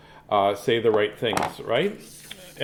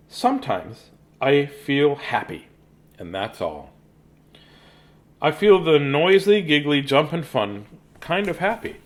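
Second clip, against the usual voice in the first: put-on reading to children. Reads the picture book aloud to children.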